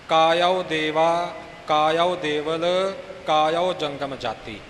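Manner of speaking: ਕਾਇਓ said as ka-ya-o, each syllable clear; spoken pronunciation. Shown as a demonstration. Teacher speaks ਕਾਇਓ ਦੇਵਾ clearly after the sung take, spelling out sounds. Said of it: "ਇਉਂ ਉਚਾਰਨ ਹੈ ਇਹਨਾਂ ਲਫ਼ਜ਼ਾਂ ਦਾ".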